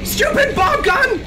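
high-pitched, exasperated shouting; frustrated yelling. Real, not acted. Player berating a useless gun, frustrated yelling. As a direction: yell in a high, worked-up frenzy.

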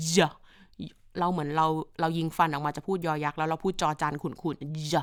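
soft G as a voiced "เจ". Shown as a demonstration. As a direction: say "เจ" like a murky จอจาน blended with ยอยักษ์.

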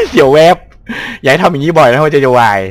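startled nerves. Real, not acted.

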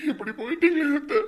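cracking tearful cry. Acted. Mourner lamenting his aunt, cracking cry. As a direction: let the grief break out.

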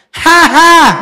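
high, loud ha ha to set the beat; leading laugh. Shown as a demonstration. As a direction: laugh out for the crowd to follow. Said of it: "thử ba nhịp nghe".

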